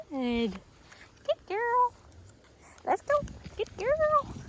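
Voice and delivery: high, loud cue and praise; very high praise to the dog; eager praise. Real, not acted. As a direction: get her moving happily. Urging and praising puppy.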